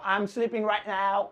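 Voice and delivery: "I am sleeping right now" said slowly; slow careful teacher read; slow model sentence. Shown as a demonstration. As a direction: dictate it for learners. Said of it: "translation demo".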